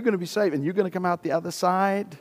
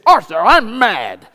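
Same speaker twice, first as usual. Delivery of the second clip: retold anger; 7 semitones higher, 12 dB louder than usual. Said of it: "She says".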